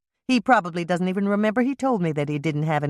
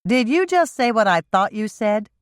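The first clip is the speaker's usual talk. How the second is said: shocked; 7 semitones higher, 4 dB louder than usual. A narrator's reading. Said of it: "turned to look at Hannah in shock".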